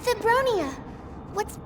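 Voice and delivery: urgent shout. Acted. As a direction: call out in alarm. Urgent call out.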